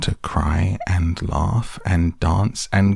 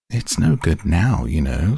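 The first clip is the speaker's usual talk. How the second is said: sorrowful. Acted. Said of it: "shaking its head at her very sorrowfully".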